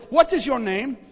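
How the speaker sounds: Indian shop owner. Retold or imitated. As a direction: demand an answer with an Indian accent. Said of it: "this little guy from India who owns the store".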